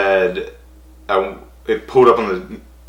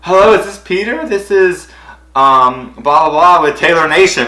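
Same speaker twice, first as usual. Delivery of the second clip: caller's voice; 8 semitones higher, 6 dB louder than usual. Retold or imitated. Caller from Taylor Nation.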